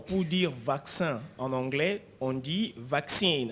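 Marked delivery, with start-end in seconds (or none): 2.8-3.5 slow "vaccine" in English; English word. Shown as a demonstration. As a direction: model "vaccine" slowly. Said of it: "Répétez après moi". ("vaccine" prononcé lentement)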